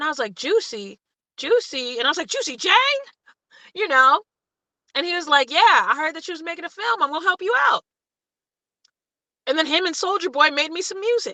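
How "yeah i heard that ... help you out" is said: put-on very Southern accent, laid on heavy. Speaker recalls a phone call offering help with a film; impression of a rapper's southern accent. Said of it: "this very, very, very southern voice says".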